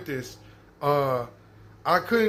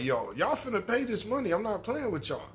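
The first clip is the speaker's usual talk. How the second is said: mock threatening attitude; 4 semitones higher, 5 dB quieter than usual. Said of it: "That's his attitude".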